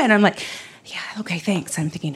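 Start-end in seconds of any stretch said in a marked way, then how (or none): 0.8-1.8 soft, distracted thanks; subdued brush-off. Worried dancer to congratulating classmates, subdued.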